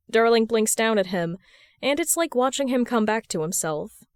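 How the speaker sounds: ordinary delivery, nothing marked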